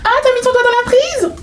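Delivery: very high, squealed taunt; mocking teaser. Woman mimicking someone teasing her afro, high mocking voice. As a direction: put on a high, laughing jeer.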